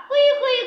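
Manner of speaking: high imitated fox yelp; fox cry. Shown as a demonstration. Teacher shows children the fox's call, imitated high cry. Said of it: "कसा करतो?".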